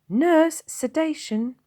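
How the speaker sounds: high, loud urgent order; urgent command. Acted. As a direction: call for sedation at once. Sister commands.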